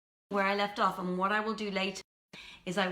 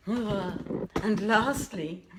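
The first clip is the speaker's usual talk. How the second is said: laughing; 3 semitones higher, 5 dB louder, much slower than usual. Real, not acted. Laughs at her own stumble.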